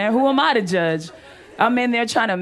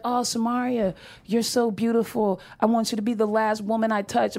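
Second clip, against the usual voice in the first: lightly voiced sappy sweet talk; mock sweet boyfriend; 4 dB quieter than usual. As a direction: imitate a boyfriend being too sweet. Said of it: "He'd say sweet things".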